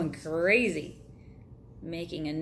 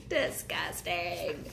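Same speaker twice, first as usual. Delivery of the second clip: slow disgust; 4 dB quieter, much slower than usual. Real, not acted. Comment on cookie, slowed.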